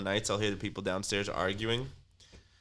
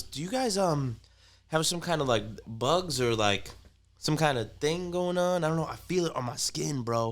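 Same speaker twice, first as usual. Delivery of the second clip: higher, slowed anxious rambling; paranoid neighbor; 5 semitones higher than usual. Retold or imitated. Paranoid neighbor asking about bugs, high anxious rambling. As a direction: fret like you feel bugs on your skin. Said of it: "He goes".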